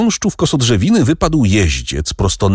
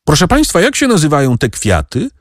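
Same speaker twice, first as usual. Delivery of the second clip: put-on boy calling out; 9 semitones higher, faster than usual. A narrator's reading.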